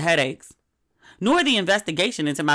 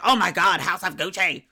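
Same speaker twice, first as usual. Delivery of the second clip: mock gushing; 2 semitones higher than usual. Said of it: "my friends were like".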